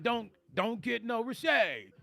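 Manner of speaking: slow, lightly voiced comic complaint; a hint of the old standup whine; Rodney Dangerfield. Reading the chat's tagline in a mild Rodney voice. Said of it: "Rodney's tagline".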